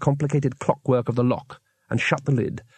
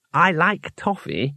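defensively; 3 semitones higher, slower than usual. A narrator's reading. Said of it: "said Two Flower defensively".

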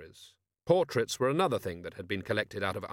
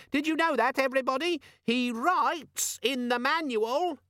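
nasty demon. A narrator's reading. Organizer demon telling on Vimes nastily. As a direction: sneer like a tattletale. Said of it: "said the demon nastily".

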